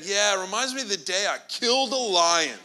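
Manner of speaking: smug brag through a laugh; playful boast about the lion; laughing mock boast. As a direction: chuckle while bragging.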